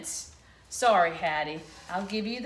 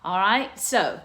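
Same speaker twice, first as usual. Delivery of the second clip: excited; 2 semitones higher, 6 dB louder than usual. Real, not acted. Announcing a movement song.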